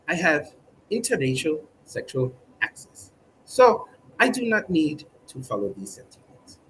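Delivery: a lightly put-on British accent, proud and prim; mock posh British. Comedian as proud British subject, mock posh accent. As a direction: hold the prim royal-loving Brit voice.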